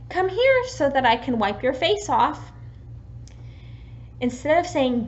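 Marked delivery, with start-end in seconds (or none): 0.1-2.5 put-on friendly full sentence to a toddler; full sentence to a child. Shown as a demonstration. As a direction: model a complete sentence kindly for a child.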